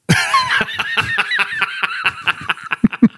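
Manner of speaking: a long high burst of laughter; high cackling laugh. Real, not acted. Host laughing at his own real-man joke, high cackle.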